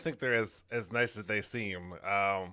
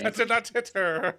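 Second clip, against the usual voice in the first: Tommy Wiseau impression; 9 semitones higher, 7 dB louder than usual. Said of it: "Oh, hi, Mark".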